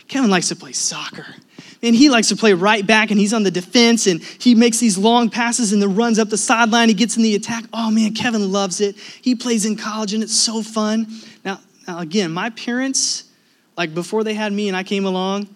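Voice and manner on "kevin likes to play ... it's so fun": lively parental enthusiasm, slightly raised; gushing. Retold or imitated. Parents describe son's soccer to friends, gushing. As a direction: imitate a proud parent rattling on. Proud parents gush about son.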